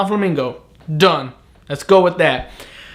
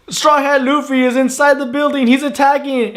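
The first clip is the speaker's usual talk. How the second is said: mock alarm announcement; 8 semitones higher than usual.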